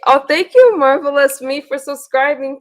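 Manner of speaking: sudden happy thanks to a new subscriber; excited thanks. Real, not acted.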